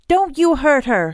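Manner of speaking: high, loud warning; protective yell. Acted. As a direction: yell it out to defend her. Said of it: "he yelled".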